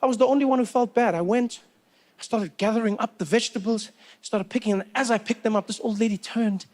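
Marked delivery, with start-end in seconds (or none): none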